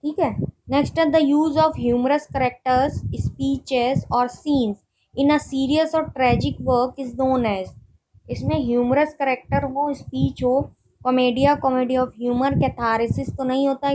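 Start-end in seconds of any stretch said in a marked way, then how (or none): 1.1-7.7 reads the question word by word, very slowly; slow dictation reading. Acted. Teacher reading a quiz question to students, slow dictation pace. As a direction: spell out each option slowly for note-taking.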